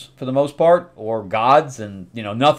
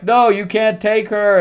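father's protest; 9 semitones higher, 3 dB louder than usual. Retold or imitated. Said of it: "the father's like".

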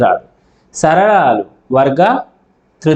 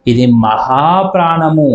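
slow emphasis. Shown as a demonstration. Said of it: "ఎక్కువ గాలి వచ్చేలా పలుకుతాం".

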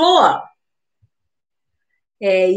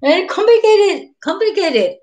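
high, loud exasperated cry; high amused exasperation; exasperated exclaim; 10 semitones higher, 3 dB louder, faster than usual. Real, not acted. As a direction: throw up your hands at how complicated it is. Teacher laughing at exceptions.

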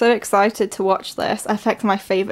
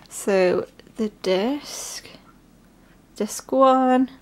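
whisper; much slower than usual. Real, not acted. Whispering while unboxing.

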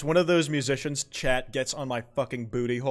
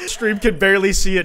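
loud, high, laughing through the words; cracking up; 7 semitones higher, 12 dB louder than usual. Real, not acted. Streamer spots something peeking out on stream, cracking up. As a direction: laugh helplessly while talking, pitched up.

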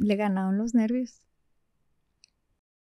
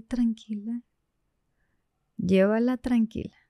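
soft conscience voice, softer; Pepe Grillo inner voice; 3 dB quieter than usual. Retold or imitated. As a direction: talk yourself down like a tiny conscience. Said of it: "la voz de Pepe Grillo". (voz de Pepe Grillo, suave y baja)

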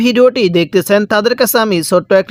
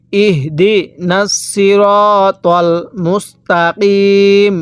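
long drawn-out chanted recitation; ধীর তিলাওয়াত; slow Quran recitation; much slower than usual. Shown as a demonstration. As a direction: lead the verse slowly, as a model. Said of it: "হ্যাঁ, কিভাবে পড়ব?".

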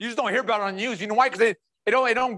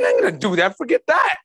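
mock indignant refusal; 5 dB louder than usual. Preacher imagines Jesus refusing the cross, mock indignant. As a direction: pitch leaps up louder on the brush-off.

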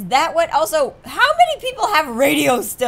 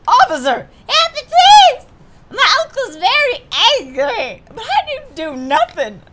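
put-on high, pleading child voice; frightened little girl; 11 semitones higher, 7 dB louder than usual. Hostage girl begging the officer for help, frightened child voice. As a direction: beg the officer like a scared kid.

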